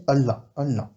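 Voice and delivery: "Allah" with a long held L; stressed double L. Shown as a demonstration. Teacher showing the held double L in "Allah". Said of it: "on va faire un L appuyé".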